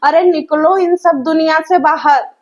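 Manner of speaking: ordinary talk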